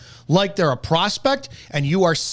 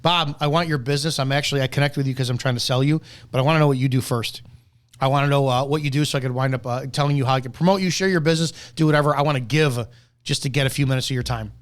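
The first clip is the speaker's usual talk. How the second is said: sincere pitch; 3 semitones lower, faster than usual. Shown as a demonstration. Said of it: "I find more value in".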